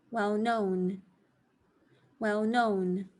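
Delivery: Well-known with known stronger; stress on known. Shown as a demonstration. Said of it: "the first syllable ... slightly softer".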